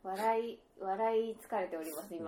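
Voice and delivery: worn out from laughing; breathless after a laughing fit; after laughing hard. Real, not acted.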